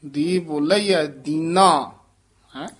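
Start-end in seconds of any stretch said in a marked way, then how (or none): 1.1-1.9 ਦੀਨਾ with ਦੀ kept light, not heavy; don't weigh down the ਦੀ in ਦੀਨਾ. Shown as a demonstration. Teacher showing a light ਦੀ in ਦੀਨਾ. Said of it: "ਦੀ ਨੂੰ ਭਾਰਾ ਨਹੀਂ ਕਰਨਾ".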